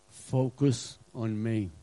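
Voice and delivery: slow, sincere "Focus on me"; slow emphatic. Shown as a demonstration. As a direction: press "Focus" slowly and gently. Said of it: "Jesus will tell us this today".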